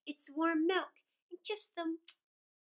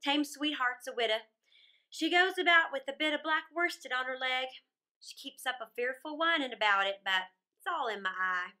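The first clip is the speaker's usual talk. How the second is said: put-on louder, bold teasing robber girl; brash robber girl; 3 dB louder than usual. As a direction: tease him like a cocky bandit girl. Robber girl chats and asks.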